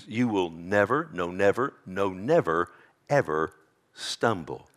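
low, deliberate hammering of each "never"; weight every "never", pausing before "ever stumble"; emphatic. Shown as a demonstration. Preacher unpacking the Greek for his congregation, emphatic. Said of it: "in the Greek is in the emphatic".

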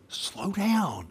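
high, softened imitation of calling out; feed the answer in a high, hushed mock call. Friends helping him with the driving test, hushed mock call. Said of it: "and they go".

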